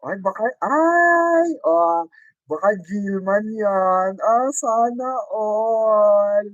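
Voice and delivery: high, slow gushing squeal. Real, not acted. Vlogger gushing over the couple clip. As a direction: swoon over the sweet couple.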